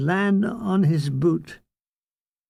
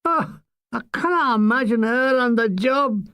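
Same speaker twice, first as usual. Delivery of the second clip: evil laughter; 4 semitones higher than usual. Retold or imitated. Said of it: "Mulgrew was doubled up in evil laughter".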